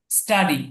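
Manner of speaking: স্টাডি with ট, no puff of breath; unaspirated T. Shown as a demonstration. Teacher models the correction for students, স্টাডি with ট sound. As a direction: say স্টাডি with a plain retroflex T. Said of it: "ট এর মতো উচ্চারণ হবে".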